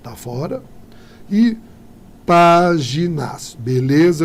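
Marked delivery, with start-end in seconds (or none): 2.2-3.6 "páginas" slow and louder, with "pá" stressed; slow stress check on "páginas"; syllables drawn out. Shown as a demonstration. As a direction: stretch "páginas" to land on "pá". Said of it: "eu tenho aqui proparoxítona".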